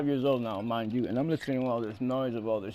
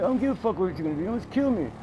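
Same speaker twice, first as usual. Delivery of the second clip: fed-up yell; 6 semitones higher, much faster than usual. Retold or imitated. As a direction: fire it back at him. Kid yelling at driver.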